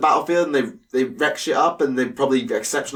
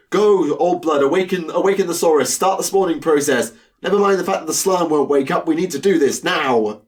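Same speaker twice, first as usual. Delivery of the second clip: higher-pitched urgent lizard commander; rally the troops in a higher voice; commanding Skink Chief; 5 semitones higher than usual. Acted. Skink Chief taking command of the Seraphon war host, urgent orders. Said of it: "this Skink Chief was having to basically take command".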